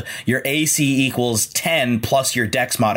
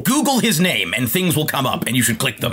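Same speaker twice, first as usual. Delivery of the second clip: put-on old radio announcer; 5 semitones higher than usual. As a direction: deliver it like a newsreel promo. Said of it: "co-anchor".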